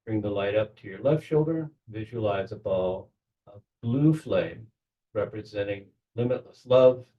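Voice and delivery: measured meditation guide with long pauses; guided visualization. Acted. Leader settles the group into belly breathing, calm guided meditation. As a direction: guide them calmly, leaving space between phrases.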